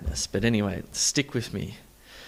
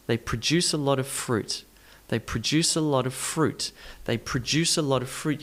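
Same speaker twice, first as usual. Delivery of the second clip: pruh-DUCE with "a" and "of" reduced to uh; stress melody. Shown as a demonstration. Teacher repeats for learners, melodic stress. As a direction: run it smoothly, stressing DUCE, LOT and FRUIT. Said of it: "You can hear the melody there".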